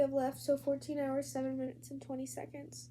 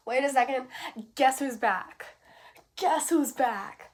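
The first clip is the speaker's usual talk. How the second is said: loud, playful comeback announcement; giddy, feeling good; 8 dB louder than usual. Real, not acted. Vlogger returning after a week sick, giddy. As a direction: crow it loudly, delighted to be back. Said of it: "I'm feeling really good right now".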